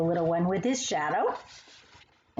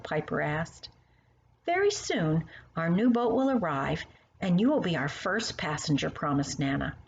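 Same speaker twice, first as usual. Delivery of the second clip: gentle storybook narration; reading to children. Acted. Reading Gigi's picture book aloud to a child, gentle storytelling.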